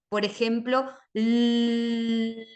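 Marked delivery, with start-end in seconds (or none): 1.1-2.5 "l" sustained steadily; held l sound. Shown as a demonstration. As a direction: hold the l as long as you can. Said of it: "yo lo puedo sostener". (sonido l sostenido)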